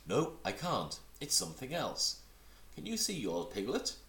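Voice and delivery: high, eager small kangaroo; little Roo voice. Acted. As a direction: chatter up high like a tiny child.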